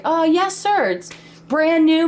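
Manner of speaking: a touch of salesman politeness; eager seller. Retold or imitated. Seller eagerly answers a prospective buyer.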